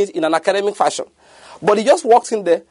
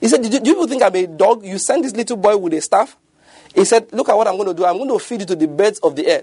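mocking Goliath; 4 semitones higher than usual. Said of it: "Goliath looked at him and said".

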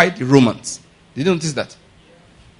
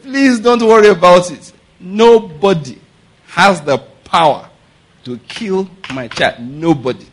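bold; slower than usual. Acted. Mother answering neighbour about her child's killer, bold. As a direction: declare it boldly, word by word. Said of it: "my friend said it boldly".

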